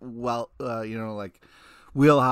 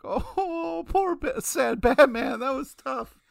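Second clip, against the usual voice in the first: mock sympathy; 10 semitones higher than usual. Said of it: "I was like".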